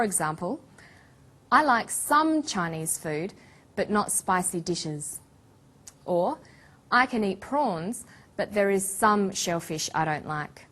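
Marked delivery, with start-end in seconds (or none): 1.5-5.2 "some" stressed, said with a little more weight and pitch. Shown as a demonstration. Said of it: "we put the stress on the word some". 6.9-10.7 "some" given extra weight to mean certain kinds only; stress on SOME. Shown as a demonstration. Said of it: "we put the stress on the word some".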